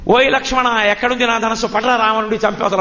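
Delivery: high opening call, easing down; imitated angry summons, half-shouted; mock furious call. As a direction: play little Krishna raging as Rama. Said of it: "పరమ కోపంతో".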